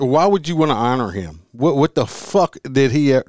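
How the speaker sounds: exasperated, incredulous challenge; getting mad. Real, not acted. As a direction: start to go off on an angry rant. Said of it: "I'm not gonna go off on a rant".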